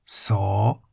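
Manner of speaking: "so" opened with an S; Thai S sound. Shown as a demonstration. Teacher shows learners the consonant so, S sound at the start. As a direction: say "so" with a clear initial S. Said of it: "sounds like an S".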